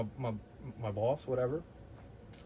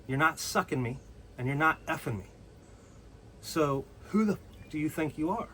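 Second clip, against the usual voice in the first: retold cussing out. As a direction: lean in and tell her off. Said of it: "I leaned right in and said".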